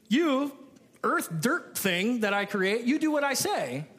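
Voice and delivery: lightly voiced domineering god; a hint of a harsh idol ordering mankind; mock bossy god. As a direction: play a pagan god ordering people around. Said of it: "other gods of the nations".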